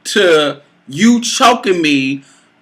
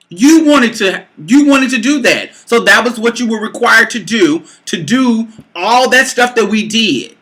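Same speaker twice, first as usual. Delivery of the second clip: raised, emphatic argumentative voice; heated rebuttal; 5 semitones higher than usual. Retold or imitated. Woman insisting lover chose it himself, heated. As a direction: argue back hard, pitch climbing. Retold argument, accusing him back.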